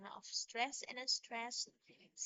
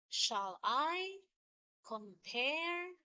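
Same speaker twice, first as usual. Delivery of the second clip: "Shall I compare" in a weak-strong beat, leaning on "I" and "-pare"; iambic stress; 2 semitones higher, much slower than usual. Shown as a demonstration. Teacher giving an iambic example, stress on "I" and "-pare" in "Shall I compare". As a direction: stress every second syllable of "Shall I compare". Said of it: "second syllable receives the strong".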